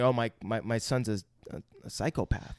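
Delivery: monotone. Retold or imitated. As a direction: say it with no expression at all. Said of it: "the way he says things monotone".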